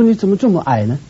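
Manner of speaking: scornful high whine about his height; mocking complaint. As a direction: sneer at him like a nagging wife. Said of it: "你说".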